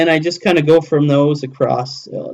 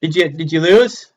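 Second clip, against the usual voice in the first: imitating Mara; 7 semitones higher, 3 dB louder, slower than usual. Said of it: "I hear Mara going".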